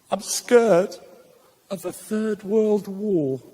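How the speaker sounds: mock heartbroken child, words drawn out slowly; lightly voiced scared child; crying five-year-old. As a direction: imitate a small boy's slow, sorry confession. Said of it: "he was crying his eyes out".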